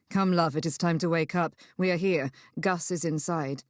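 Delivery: low, tender wake-up call; gentle male character. Acted. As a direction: coax a loved one awake.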